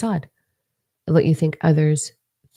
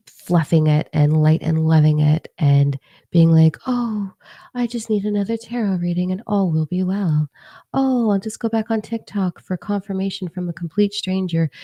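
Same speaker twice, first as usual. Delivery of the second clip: mocking; 3 semitones higher than usual. Mocking spiritual seekers.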